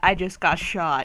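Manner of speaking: usual speaking voice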